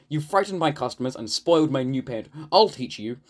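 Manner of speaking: mildly cross scolding; cross barber. Acted. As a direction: scold with a touch of indignation. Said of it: "said the barber crossly".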